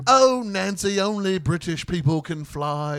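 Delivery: hammed-up grieving explanation; mock lament. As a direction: sigh it out like a pompous know-it-all. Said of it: "and he's like".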